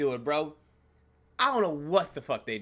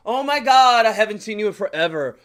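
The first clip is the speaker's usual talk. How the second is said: excited greeting; 2 semitones higher, 9 dB louder than usual. Retold or imitated.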